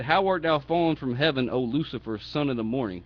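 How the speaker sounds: firm, mildly mocking declamation; making fun. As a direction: intone scripture as a taunt. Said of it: "the Lord's making fun of his ass".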